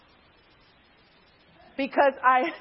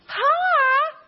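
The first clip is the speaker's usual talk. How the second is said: Southern hi; 6 dB louder than usual. Retold or imitated. Roommate's Southern greeting.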